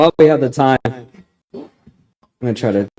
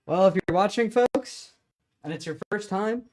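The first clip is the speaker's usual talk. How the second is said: helium voice; 8 semitones higher than usual. Real, not acted. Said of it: "my voice doesn't actually sound like this".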